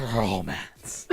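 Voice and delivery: long rolled R opening "Romance"; rolling the R. Shown as a demonstration. Host demonstrates for reference, rolling the R. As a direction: trill the R hard at the start of "Romance". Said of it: "here's me rolling my R's".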